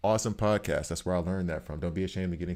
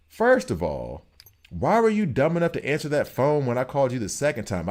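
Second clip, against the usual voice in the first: loud high angry yelling; yelling at scammer; 6 semitones higher, 5 dB louder than usual. Retold or imitated. Retelling yelling at the scam caller on the phone, loud angry yelling. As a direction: chew him out, voice up and loud. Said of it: "I'm not done yelling at you yet".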